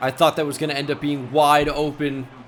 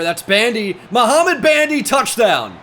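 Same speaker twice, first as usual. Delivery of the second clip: real thrill of a score; excited shouting; 8 semitones higher, 8 dB louder than usual. Real, not acted. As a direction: voice jumps high and loud at the name. Touchdown in his game.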